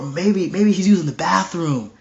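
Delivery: mock helpfulness that builds to a jeer. Elijah ridiculing Baal to his priests, mocking. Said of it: "he's mocking them".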